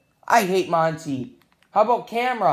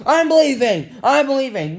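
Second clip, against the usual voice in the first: storming off; 4 semitones higher, 3 dB louder than usual. Pretend. Threatens to storm out of game.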